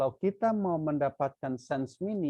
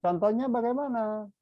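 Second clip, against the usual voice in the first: raised prompt; 10 semitones higher, 6 dB louder than usual. Real, not acted. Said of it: "teacher prompts class".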